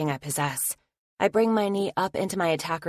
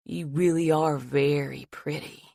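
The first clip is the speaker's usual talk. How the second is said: creepy attacker. Acted. Attacker leering at his terrified victim, creepy. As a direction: let the madness leak through. Attacker turns soft and crazy.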